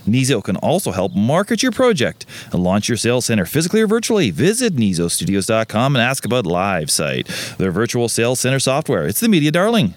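rehearsed podcast sponsor read. Acted. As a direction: sell it with swooping emphasis. Reads the sponsor spot.

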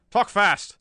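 loud, high, urgent command; barked order. A narrator's reading. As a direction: order the captive to start talking. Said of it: "he ordered".

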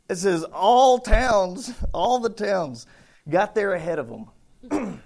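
slow and emphatic, every word drawn out; savoring the words. Real, not acted. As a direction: linger on all towns in wonder. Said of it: "but I love this".

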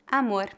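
Amor ending in a light tapped R; one quick tongue tap at the end of Amor; Portuguese: amor com R fraco; weak R. Shown as a demonstration. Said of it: "R fraco".

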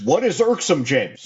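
high, puzzled mock Anthony voice; imitating Anthony. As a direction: play his baffled friend asking what the word means. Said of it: "the first thing he'll say is".

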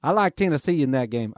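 playful mock Tennessee accent; dabbling in a Tennessee accent; put-on Tennessee accent. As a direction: say it in a light, jokey Tennessee accent. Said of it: "I don't know why I'm doing that accent".

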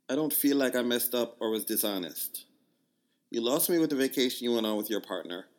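put-on a light, amateur Jamaican accent; reading her text in a mock Jamaican lilt. Reading her text to the audience in a mild Jamaican accent. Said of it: "I'm gonna try to do a Jamaican accent".

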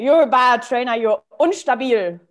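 firm critic slipping into German; German inner critic. Acted. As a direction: scold like a stern inner critic. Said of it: "say it in German".

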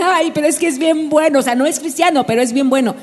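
high-pitched "Ay" then lightly voiced pleading; a hint of a smitten teenager; mock gushing girl. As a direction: imitate a girl excusing her boyfriend. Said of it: "que digan".

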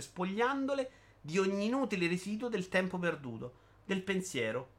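punchy, sing-song run of short items; rhythmic list reading. Acted. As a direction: read it as a rattling, emphatic list. Elenco incalzante nel monologo. (lettura ritmata ed enfatica)

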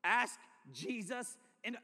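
drawn-out, incredulous repeat; mocking disbelief. Camper repeating the preacher's advice, slow and incredulous. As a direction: stretch it out as if it sounds dumb. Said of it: "that sounds so dumb".

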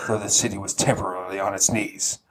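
Jocko Willink. Acted. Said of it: "You've gotta read this like Jocko Willink".

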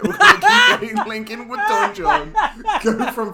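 words bursting out in high laughter; laughing high. Real, not acted. Host cracking up at his own porn joke, laughing high.

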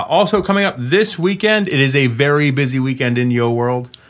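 radio announcer voice. Acted. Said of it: "I said that like a radio announcer".

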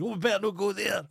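mock queen voice. Queen turns away from town.

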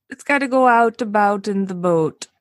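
botched Minnesotan with a stray British-Irish twang; bad Minnesotan accent. Shown as a demonstration. Host failing at the accent, bad Minnesotan twang. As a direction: badly fake Minnesotan "out" and "boat" vowels. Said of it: "Mine was bad".

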